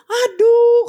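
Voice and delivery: high, stretched exclamation of dismay; exasperated groan. Retold or imitated. Preacher reacts to the whispering story, exasperated. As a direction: let it out high in retold exasperation.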